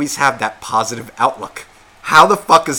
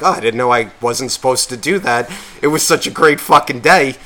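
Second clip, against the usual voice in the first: mock whiny excuse; 4 dB louder than usual. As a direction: play the guest pleading he meant no harm. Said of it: "then you get upset and be like".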